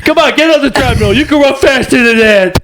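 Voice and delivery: high, pushy New York trainer; New York coach yelling. Pretend. Friend imitates New York gym coach, yelling. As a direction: shout at the runners like a Jersey coach. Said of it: "New York accent".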